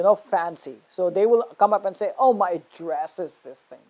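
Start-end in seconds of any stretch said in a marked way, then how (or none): 2.2-3.8 "address" mis-stressed as adDRESS; wrong stress. Retold or imitated. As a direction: imitate the mistake, stressing the second syllable of "address". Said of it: "No, that's wrong".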